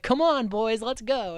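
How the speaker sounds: rally the troops in a high mock voice; high excited rally cry. Nancy rallying her French boys, high and eager. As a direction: pitch up high and cheer the boys on. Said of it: "They're like".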